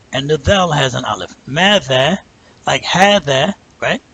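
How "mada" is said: Mada with both a's held long; long vowels. Shown as a demonstration. Teacher showing two long syllables in Mada. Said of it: "two syllables that are both long".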